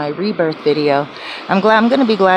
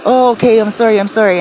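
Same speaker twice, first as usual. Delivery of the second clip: higher, louder mock apology; hasty apology; 3 semitones higher, 4 dB louder, faster than usual. Imitating her friend apologising for waking her, higher and hurried. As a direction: apologise in a rush. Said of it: "he's like".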